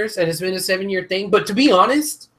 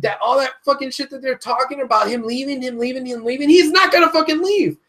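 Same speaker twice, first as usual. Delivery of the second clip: heated rant; 6 semitones higher than usual. Real, not acted. Ranting to friends about fake rumors, heated and rising. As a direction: hammer the repeats, then blow up.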